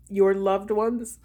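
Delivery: slow, emotional start to a reading; real tears caught in the voice; still crying. Real, not acted. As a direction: try to read while still tearful. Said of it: "Oh, I'm still crying".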